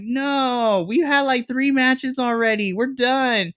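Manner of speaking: high-pitched, fed-up refusal; shutting the whole feud down; fed-up protest. Retold or imitated. Telling the writers she's done with the feud, fed up and high. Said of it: "And I'm like".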